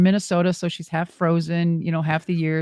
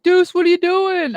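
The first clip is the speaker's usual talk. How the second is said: high, excited imitation of Mike calling out; mock surprised hello; excited greeting; 12 semitones higher, 4 dB louder than usual. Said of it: "He's like".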